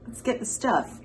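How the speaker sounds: laughing. Real, not acted. Third take through a laugh.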